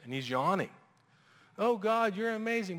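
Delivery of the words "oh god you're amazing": much higher, gushing pious tone; mock fake prayer. Believer praying a fake prayer to God, hammed-up gushing. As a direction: pray pretty words you don't mean. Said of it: "we pray fake prayers".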